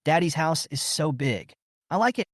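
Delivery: lightly voiced excited little kid; baby voice. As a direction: chirp it like a small child. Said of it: "shouted in a baby voice".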